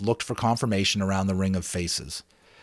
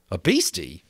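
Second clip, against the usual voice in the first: put-on lightly raised boyish voice, pleased; a schoolboy showing off his island; Ralph, excited about the island; boy Ralph, eager; 5 semitones higher than usual.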